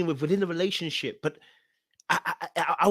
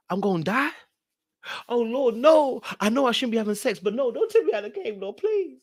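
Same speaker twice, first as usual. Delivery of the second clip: higher, pleading plea to the Lord; retold panicked begging, pitched up; 6 semitones higher than usual. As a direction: beg God for your life, voice climbing. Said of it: "I was begging and crying".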